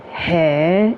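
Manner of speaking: "Hey" said with a lift of surprise; Japanese-style "hey" of shock; Japanese "hey" for OMG. Shown as a demonstration. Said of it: "my equivalent of O M G".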